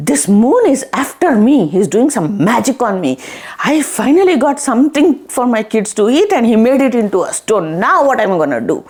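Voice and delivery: mildly exasperated, voiced complaint; lightly acted indignant outburst; mad at the moon. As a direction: act a touch aggrieved, hurrying through the grievance. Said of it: "she's really mad at the moon".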